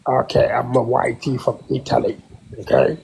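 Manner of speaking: a fake accent, held steady; trolling the room in a put-on voice. Caller trolling the room about Charlie Kirk, put-on accent. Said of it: "Sesame Street and Oscar the Grouch".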